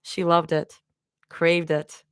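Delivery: slow, measured audiobook reading; story narration. A narrator's reading. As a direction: read it tenderly, letting each phrase settle. Reads the fanfic aloud.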